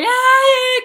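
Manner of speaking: high, loud drawn-out fake wail; mock child's cry. Niño llega llorando a mamá indiferente. (quejido fingido de niño, agudo)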